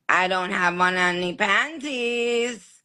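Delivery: slow, drawn-out movie-line imitation; lady on Boomerang. Host reads viewer's comparison to a film lady, slow imitation. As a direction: quote it slowly, in character. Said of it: "She talks like that lady on Boomerang".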